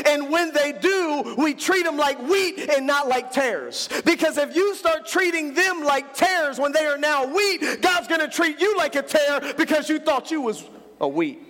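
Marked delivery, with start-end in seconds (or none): 4.0-11.4 raised, shouting preacher's warning; preaching shout. Real, not acted. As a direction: drive the warning home at full voice. Preacher warns the congregation.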